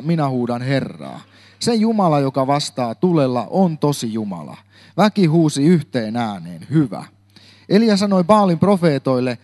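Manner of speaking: measured Bible reading aloud; steady, storytelling reading voice; scripture reading. Acted. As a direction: read the story of Elijah to the congregation. Reads the Bible passage aloud.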